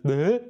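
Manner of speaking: loud comic "bleh"; imitated silly "bleh" tic; added bleh noise. Host showing friend's new addition, mock bleh noise. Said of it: "you've added in this".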